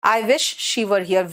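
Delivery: slow, stretched-out wish; slow model sentence. Shown as a demonstration. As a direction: model it slowly for students. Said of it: "कहाँ है?". (धीमे, खिंचा हुआ वाक्य)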